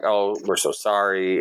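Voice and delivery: drawn-out, mild mock apology; apologetic staff. Restaurant host apologising to waiting diner, mildly apologetic. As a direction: lightly imitate a host stretching out sorry.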